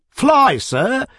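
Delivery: high, loud hawker's cry; exclaimed call. Acted. Cab drivers calling out to Mister Joseph Tuggs, loud cry. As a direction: call out to the arriving gentleman. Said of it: "exclaimed a chorus".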